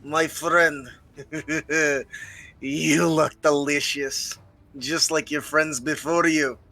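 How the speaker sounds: slow, relishing threat to its prey; a hint of a hungry monster licking his lips; menacing goblin taunt. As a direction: savour each word like a hungry brute. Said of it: "in goblin he says".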